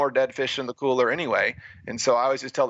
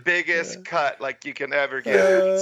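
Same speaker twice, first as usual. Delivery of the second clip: higher, mock-gushing commentator; gushing announcer; 5 semitones higher than usual. Mocking the TV commentary of his race, a higher gushing announcer. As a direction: lightly ham up a broadcaster raving over the star. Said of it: "So the announcer's like".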